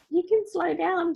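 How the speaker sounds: gentle warning. Retold or imitated. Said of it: "And I thought".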